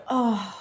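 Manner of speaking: long, falling groan of "oh"; drawn-out "oh" groan. Acted. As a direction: groan it softly in dismay. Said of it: "and I immediately groan".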